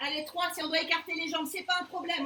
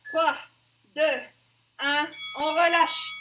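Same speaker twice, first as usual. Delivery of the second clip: appel fort; 8 dB louder, slower than usual. Real, not acted. Coach calls end of set.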